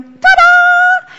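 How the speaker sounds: high, loud, stretched shout; triumphant ta-da. Acted. Customers celebrating inside over one little thing, triumphant shout. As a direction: celebrate with a big flourish. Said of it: "on the inside they're going".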